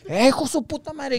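mucho más agudo y fuerte, rabioso; escúpelo con rabia; insulto a gritos. Retold or imitated. Compa insulta al muchacho. (compa drogado insulta al muchacho, agudo y fuerte)

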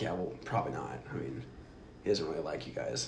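low, very soft brush-off; imitated reluctant manager. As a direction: drop it down quietly, letting them down. Acts out manager's reluctant reply.

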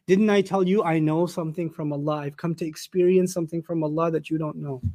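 soft heartfelt father to ashamed sons; sincere. Shown as a demonstration. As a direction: speak it tenderly, not to win. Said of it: "None of that".

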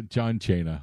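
Cena said as "CHAY-na"; mock mispronunciation. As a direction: echo the mangled name, Cena as "CHAY-na". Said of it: "they showed that clip of that promo".

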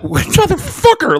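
high, drawn-out yelp of a curse; startled curse. Retold or imitated. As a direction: stretch the curse out like a bitten yelp. Yelling at the biting cat.

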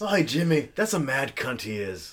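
playful imitation of an Australian accent. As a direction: put on a casual Australian accent. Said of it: "like, an Australian say cunt".

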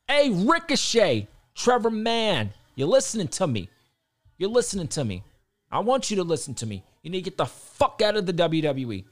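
loud direct call-out; fired-up call-out to a wrestler. Real, not acted. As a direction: yell straight at him like he can hear. Shouting advice at wrestler Ricochet.

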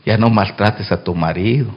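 soft, low voice in the ear; God whispering. Acted. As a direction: murmur it like a secret. (susurro de Dios al oído)

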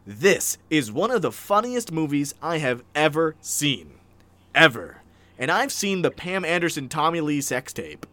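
emphatic, measured read-aloud; dramatic review reading. Acted. Host reading the review's last claims, mildly grand. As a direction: deliver each claim as a solemn verdict.

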